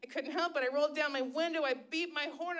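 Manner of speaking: ordinary talk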